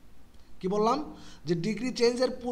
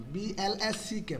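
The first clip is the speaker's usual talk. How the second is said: slow, each letter of বি এল এস সি কে spaced out; letters read out one by one for the class; spelling letter by letter; 4 dB quieter, slower than usual. Shown as a demonstration. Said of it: "বানান করতে যায়া".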